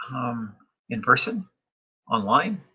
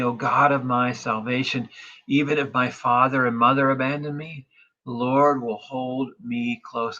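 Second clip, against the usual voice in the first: louder, confident psalm proclamation; psalm reading; 3 dB louder than usual. Acted. Pastor reads psalm to congregation, confident proclamation. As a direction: proclaim the verses with conviction.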